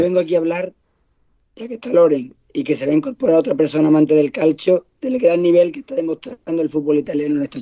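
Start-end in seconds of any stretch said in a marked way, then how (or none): 1.5-2.3 hoarse, croaky voice from a cold; rough, worn-out voice from a cold; voice of death. Real, not acted. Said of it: "adoptado la voz de la muerte".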